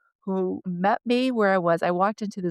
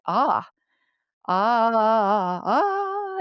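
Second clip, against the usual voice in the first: release sounds; 2 semitones higher, much slower than usual. Retold or imitated. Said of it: "open my mouth and say".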